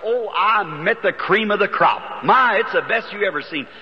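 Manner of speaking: delighted retold boast; happy. Young husband telling his wife about new friends, happily excited. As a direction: gush a little over wonderful new friends. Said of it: "Why you sound so happy".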